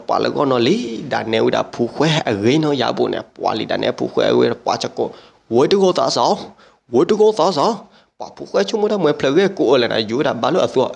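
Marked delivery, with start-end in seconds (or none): 5.5-7.8 higher-pitched repeated call; imitated call, pitched up. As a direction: call it out twice, lifting the pitch. Same acted call repeated in telling.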